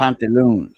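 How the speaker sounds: pantaloons said as "pont-a-loon"; French pronunciation. Shown as a demonstration. Repeating the French way for the others, French-style "pantaloons". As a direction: say "pantaloons" with "pont", rhyming with haunt. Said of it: "that's how we say it in French".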